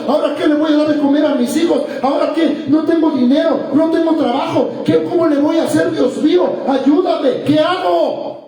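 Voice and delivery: fretful run of anxious questions; acted desperation. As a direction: voice someone at their wits' end. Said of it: "Cuando estás así desesperado".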